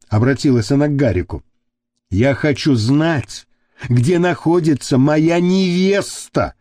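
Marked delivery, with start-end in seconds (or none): 2.1-6.5 growled. Acted. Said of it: "прорычал Гарик".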